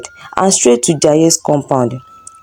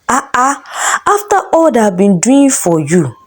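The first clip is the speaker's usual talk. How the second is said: raised, accusing husband's rant; angry husband shouting; 5 semitones higher than usual. Acted. Husband berating his wife before neighbours, angry shouting. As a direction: scold her like a betrayed husband. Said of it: "Jaye kept shouting at Kemi".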